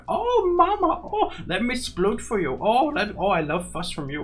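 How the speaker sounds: high, gushing pet voice; Patches. Acted. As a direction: coo adoringly like a smitten pet. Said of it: "He's such a mammy's boy".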